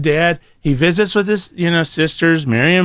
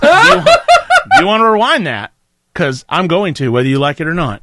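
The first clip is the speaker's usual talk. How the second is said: louder laughing demand; laughing mock threat; 3 dB louder than usual. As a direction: push it, half laughing. Acting out TV quarrel.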